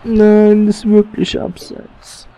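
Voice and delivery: loud, high cry of protest, then a slow drawn-out "abseits"; overloud outburst. Real, not acted. Gamer shouting at an offside call, loud and high. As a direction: yell it so the mic clips. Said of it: "Sorry fürs leicht übersteuern".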